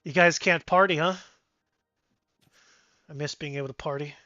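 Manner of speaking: lightly voiced teasing dwarf; laugh, then lively complaint; party-loving dwarf griping in bursts; boisterous dwarf. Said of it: "And the dwarf goes".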